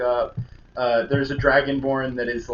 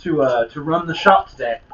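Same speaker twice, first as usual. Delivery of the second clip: louder, high, flustered dodging; flustered brother; 3 semitones higher, 8 dB louder than usual. Acted. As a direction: brush it off nervously. Dan flustered covering up.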